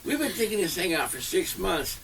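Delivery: high, laughing mock outrage; high-pitched laughing complaint about the rival team; laughing indignation. Real, not acted. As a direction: squeal out the injustice half laughing. Mock outrage at losing contest.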